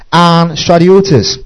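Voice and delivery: stratiotes drawn out slowly, stress on O and E; teaching the congregation a Greek word; careful Greek word. Shown as a demonstration. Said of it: "the O accentuated, the E also accentuated".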